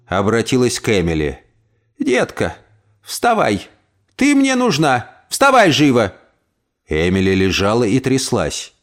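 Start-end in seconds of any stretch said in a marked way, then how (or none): 2.0-6.1 put-on high, commanding old aunt; urgent order. Aunt commands Emily to get up, urgent. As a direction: order her up fast.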